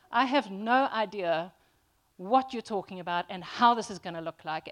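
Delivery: loud, baffled protest; exasperated confusion. Acted. Confused player to whoever explained the rules, loudly baffled. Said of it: "leaves you all confused, going".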